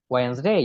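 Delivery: "ওয়েডনেসডে" as wenz-dei, first d silent; two syllables, "ওয়েডনেসডে" said wenz-dei; correct pronunciation. Shown as a demonstration. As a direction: model "ওয়েডনেসডে" with gliding final ei. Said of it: "এটার right উচ্চারণ".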